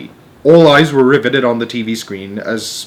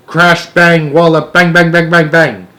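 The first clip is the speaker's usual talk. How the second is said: mock explosions; 6 semitones higher, 7 dB louder than usual. Army chief imitates explosions.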